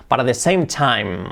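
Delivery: "but at the" run together; tapped T joining "but at"; linked words. Shown as a demonstration. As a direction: model "same time" linked, M clear. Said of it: "un poquito el linking".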